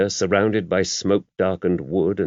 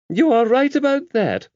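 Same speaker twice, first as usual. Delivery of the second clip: put-on higher, gentle elderly nun's voice; mother superior confiding in a priest; the abbess; 3 dB louder than usual. A narrator's reading. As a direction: voice the abbess kindly and knowingly. Abbess laughing reply.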